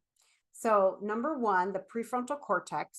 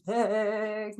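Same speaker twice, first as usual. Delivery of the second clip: shaking voice; 5 dB louder than usual. Shown as a demonstration. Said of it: "and then you get good vibrato".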